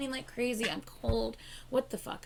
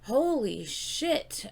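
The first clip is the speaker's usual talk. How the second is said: stunned; 4 semitones higher, 4 dB louder, much slower than usual. Real, not acted. Stunned by the song's opening.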